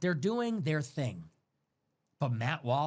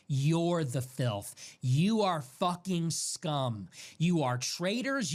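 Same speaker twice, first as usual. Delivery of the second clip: slow contempt; slower than usual. Real, not acted. Angry address to Hammer and Levin.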